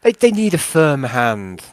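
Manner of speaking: lightly voiced old-chap character; halting, over-polite character request; Nixius, politely wheedling. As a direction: coax a pal into minding the team. Nixius presses Yarn.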